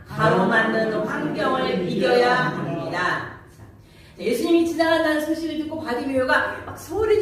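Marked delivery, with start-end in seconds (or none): 0.1-3.4 slow chanted group reading; congregation reading. Shown as a demonstration. Pastor leads the congregation in a slow chanted reading. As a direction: read aloud in slow unison cadence. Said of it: "시작".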